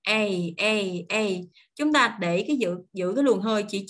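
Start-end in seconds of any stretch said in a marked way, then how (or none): 0.0-1.2 "A" as a glide from E to Y in one breath; three separate "A" diphthongs, like English "ay". Shown as a demonstration. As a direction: slide each "A" from open E into Y. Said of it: "Đọc E xong chuyển qua Y trong một hơi".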